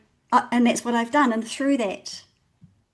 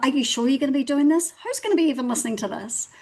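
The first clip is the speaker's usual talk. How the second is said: doubting inner voice; 4 semitones higher, faster than usual. Retold or imitated. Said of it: "that little voice going".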